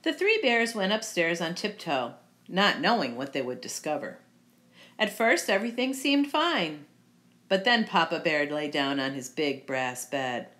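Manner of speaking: lively, well-projected storytelling; storybook narration. A narrator's reading. Reader telling children the Goldilocks tale, lively storybook narration. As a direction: read it out like a picture book.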